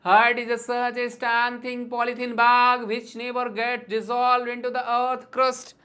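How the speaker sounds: slow, measured verse reading; demonstrating how to read a poem; rhythmic poem recitation. Shown as a demonstration. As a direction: recite it slowly, in rhythm, line by line. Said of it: "जैसे मैं पढ़ के बता रहा हूँ".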